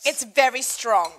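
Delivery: amused, slow, with a laugh. Real, not acted. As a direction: laugh at how strong it is. Reacting to strong drink.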